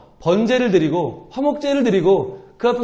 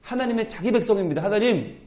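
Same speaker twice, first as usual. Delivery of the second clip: earnest plea. Acted. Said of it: "간절히 기도하는 거죠".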